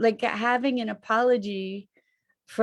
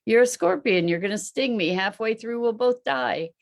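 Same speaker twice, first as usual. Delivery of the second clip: frog; 3 semitones higher than usual. Acted. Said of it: "the frog says".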